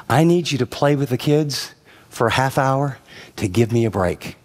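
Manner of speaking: gentle, even, reasonable request to husband; calm direct request. Shown as a demonstration. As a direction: ask him plainly and kindly. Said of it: "you might say".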